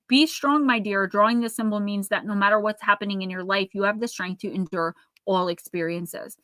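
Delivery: calm, even reading of the card text. Acted. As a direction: read the card's message like a gentle oracle. Reads tarot card meaning aloud.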